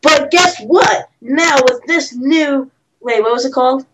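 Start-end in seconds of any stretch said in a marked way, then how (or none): 0.0-2.7 lightly voiced TV pitchman; Billy Mays pitch. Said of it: "Billy Mays try to sell this".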